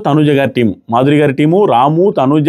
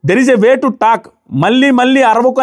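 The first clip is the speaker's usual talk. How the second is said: retold yell; 5 semitones higher, much slower than usual. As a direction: imitate an indignant scolding with raised pitch. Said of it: "అని గట్టిగా అరిచింది". (గట్టిగా అరిచినట్టు అనుకరణ)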